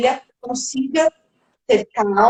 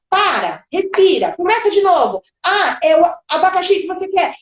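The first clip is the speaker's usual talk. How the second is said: lightly acted adult correcting a child; imitated impatient parent, pitched up; interrupting adult; 6 semitones higher than usual. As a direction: jump in to finish the child's word. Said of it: "A partir do momento que a gente fala".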